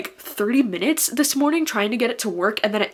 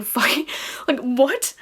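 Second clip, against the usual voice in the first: disbelieving whisper; 4 semitones higher, slower than usual. Real, not acted. Stunned recalling getting third row.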